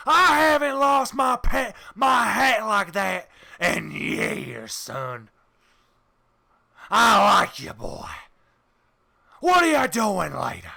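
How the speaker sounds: loud, drawn-out cowboy voice; a pleased old Texan gambler; happy Texan. Acted. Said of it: "He's actually very happy".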